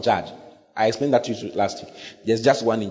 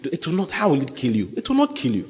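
the devil bargaining, sly and coaxing; 4 semitones higher than usual. Retold or imitated. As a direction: lure them in sweetly, stretching the words. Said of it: "He will tell you".

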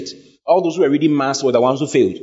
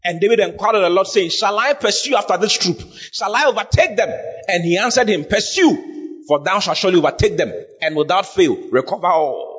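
scripture preaching; 5 semitones higher than usual. Real, not acted. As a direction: proclaim the verses with raised pitch.

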